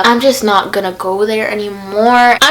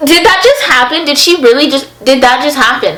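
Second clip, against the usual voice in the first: 1 disbelief; 2 semitones higher than usual. Retold or imitated. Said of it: "I'm literally just staring at her".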